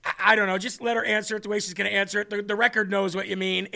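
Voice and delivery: laughing judge. Retold or imitated. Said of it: "The judge is like".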